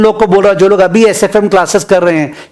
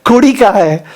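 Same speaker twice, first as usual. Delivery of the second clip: higher, eager surprised question; sudden surprise; 5 semitones higher than usual. Retold or imitated. Punjabi boy hears kudi and looks for a girl, surprised. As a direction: perk up, looking for the girl. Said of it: "वो देखता है".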